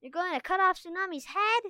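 high, loud shocked squeak. A narrator's reading. Sunny horrified at the threat to Tsunami, squeaking high. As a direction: squeak it out in alarm. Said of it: "Sunny squeaked".

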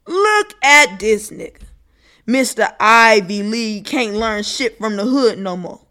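mock him from the block; mocking homeboy. Mocking hood voice.

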